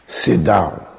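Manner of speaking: imitated accent, curt command to sit; Mother Teresa. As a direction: put on the nun's accent for a slow, firm order. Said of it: "I have to use the accent".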